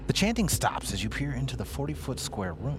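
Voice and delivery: measured scene-setting read; read-aloud narration. Acted. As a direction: read the room description evenly. GM reads boxed room text.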